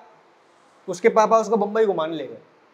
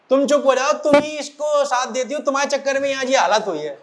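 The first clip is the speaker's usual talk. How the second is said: father snapping at his wife, raised and heated; angry yelling; 4 semitones higher than usual. Retold or imitated. Father yells at mother on the stairs, heated. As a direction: lay the blame on her with a mock shout. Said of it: "मेरे पे क्यों चिल्ला रहे हो".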